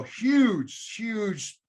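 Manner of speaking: high, loud burst of enthusiasm, then settling; excited praise. Real, not acted. Host thanks guest for his advice, excited. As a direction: gush about how huge it was.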